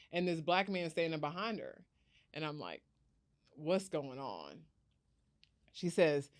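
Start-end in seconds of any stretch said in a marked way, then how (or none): 3.6-4.6 low-key, drawn-out confused question; quiet bewilderment. Retold or imitated. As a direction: ask it slowly and softly, puzzled. Bewildered by cousin and stranger.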